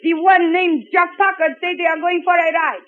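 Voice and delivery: put-on calls out the message in a heavy Eastern European accent; relaying in an Eastern European accent. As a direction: report to the maestro in a thick Eastern European accent. Heavy foreign accent throughout.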